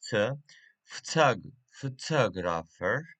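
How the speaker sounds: "photographer" with the stress on its second syllable, tog. Shown as a demonstration. Teacher showing learners word stress, second syllable of "photographer" stressed. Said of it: "stress at the, uh, second syllable".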